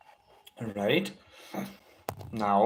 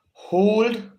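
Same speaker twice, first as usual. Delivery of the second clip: high, loud, drawn-out call; breathing cue; 8 semitones higher, 6 dB louder than usual. Real, not acted. Instructor cueing students to hold their breath, called out high. Calling breath cues in guided exercise.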